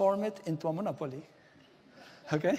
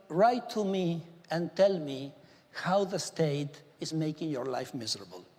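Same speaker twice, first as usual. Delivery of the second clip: slow, deliberate appeal to viewers. Shown as a demonstration. Minister shows how he invites viewers on TV, slow appeal. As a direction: spell it out slowly for the camera. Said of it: "this is the way I say it in T V".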